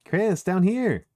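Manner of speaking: put-on a girl calls her friend over; calling out. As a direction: call down to someone. Calling to Chris from below.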